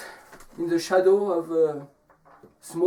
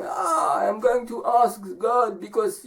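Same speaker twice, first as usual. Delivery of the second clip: high drawn "Ah", then explaining; storybook man opening on a high sigh; man answering; 5 semitones higher than usual. Acted. Man telling the young woman his errand, high-pitched answer. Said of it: "where are you going?".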